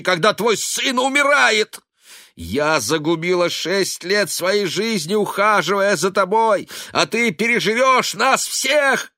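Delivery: high, loud furious yelling. A narrator's reading. Daughter screaming at her father in rage. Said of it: "Вне себя".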